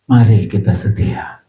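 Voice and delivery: hushed, breathy appeal; a sudden whisper to the flock. Acted. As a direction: lean in and whisper it. Preacher drops to whisper.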